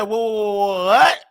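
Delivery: imitating a stuttered, baffled "what"; baffled stammer. Mother answering the hysterical call, baffled stammer. Mother reacts to his wailing.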